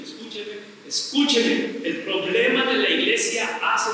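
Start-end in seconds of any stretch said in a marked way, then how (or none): 0.0-0.5 near-silent, pleading escúcheme; soft plea. Real, not acted. Preacher begging his congregation to listen, barely audible. Repeated plea, dropping away. 0.9-1.8 insistent plea. Real, not acted. Preacher urging his congregation to listen, forceful. Repeated plea, rising again.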